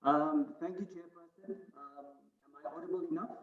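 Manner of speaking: distant, hollow, echoing voice; cave echo. Real, not acted. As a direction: sounds like speaking from a cave. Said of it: "you sound like you're in a cave".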